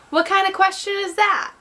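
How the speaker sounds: high indignant voice. Acted. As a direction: voice him high and put out. Taylor voiced in read excerpt.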